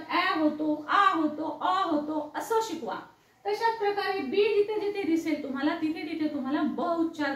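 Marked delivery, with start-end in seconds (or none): 0.1-2.3 ॲ, आ, अ each sounded distinctly; vowel sounds of A. Shown as a demonstration. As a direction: model ॲ as in cat, open आ, short अ. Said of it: "ए चे उच्चार ए होतात".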